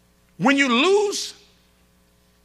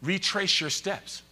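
imitating Daphne; 5 semitones lower, 10 dB quieter than usual. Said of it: "but she'll say".

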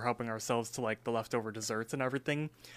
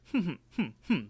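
short, higher-pitched mock "hmm"s traded back and forth; exchanged pondering hums; 6 semitones higher, much faster than usual. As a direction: imitate two friends humming thoughtfully in turn. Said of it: "they kinda exchange a hmm".

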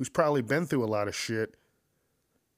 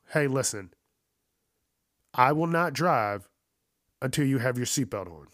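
firm aunt ultimatum; 2 semitones higher, 3 dB louder than usual. Retold or imitated. Aunt refuses to drive the kids, firm ultimatum. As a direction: lay down the law to the kids. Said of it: "That's exactly what she said".

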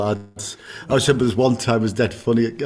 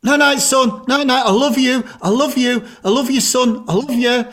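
tipsy dad calling out; 11 semitones higher than usual. Retold or imitated. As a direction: call up the stairs, full of drunken love. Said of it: "And he shouted".

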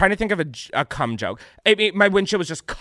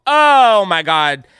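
excited gasp; 6 semitones higher, 11 dB louder, much slower than usual. Real, not acted. Reacting to Meghan vs Kate pick.

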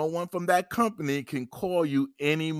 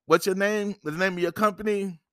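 polite firm caller; 5 semitones higher, 3 dB louder than usual. Shown as a demonstration. Viewer answering a debt collector's call, firm and polite. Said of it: "So when they call you".

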